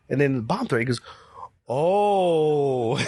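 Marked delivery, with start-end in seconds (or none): 1.7-3.0 sudden realization. Retold or imitated. Realization of bomb threat.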